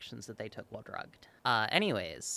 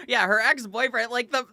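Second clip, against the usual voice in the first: high, loud, laughing rant; laughing disbelief; 12 semitones higher, 5 dB louder than usual. Real, not acted. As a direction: giggle through the disbelief.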